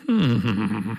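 low musing "mm"; pondering hum. A narrator's reading. Commander alone, musing over his verses, low hum. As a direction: hum thoughtfully to yourself. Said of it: "Canticchiò e meditò fra sé".

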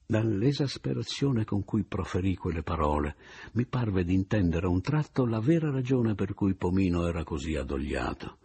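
ordinary delivery

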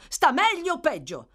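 high, loud, pressing question; urgent shout. Acted. Gentleman asking after the patient, urgent shout. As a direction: demand it at full voice. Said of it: "gridò".

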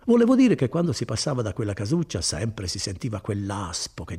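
lightly voiced kindly cousin, proud of his work; Bortolo. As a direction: warm and boastful, an easy hearty tone. Bortolo remembers home. (Bortolo rassicura Renzo, voce bonaria appena accennata)

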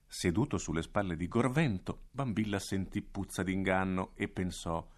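plain reading voice

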